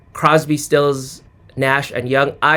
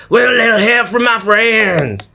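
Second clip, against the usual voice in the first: mock slurred singing in a famous singer's style, higher; imitating a famous singer; 6 semitones higher than usual. Host mocks a singer's song, slurred impression. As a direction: slur the lyric like that singer. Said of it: "talk like that".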